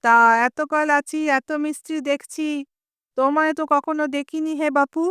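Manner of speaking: a touch of stern suspicion; stern rebuke. Acted. Noni sternly questions the unfamiliar mason, mild. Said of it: "ননি আবার কড়া গলায় বলে".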